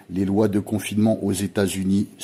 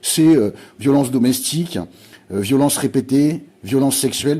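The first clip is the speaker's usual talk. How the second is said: louder and higher, indignant; worked-up reading; 4 semitones higher, 4 dB louder than usual. Real, not acted. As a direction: spit out the list in anger. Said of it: "comme moi un peu en ce moment". (énumère avec indignation, voix forte)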